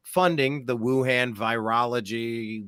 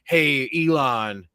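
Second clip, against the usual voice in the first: throat-straining character voice; 4 dB louder than usual. Acted. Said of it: "that'll roach my throat".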